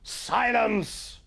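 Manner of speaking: high, commanding shout of a master; thundering. A narrator's reading. Schoolmaster silencing a rowdy class, commanding shout. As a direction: silence the whole class in one word. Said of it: "thundered Mister Wilkins".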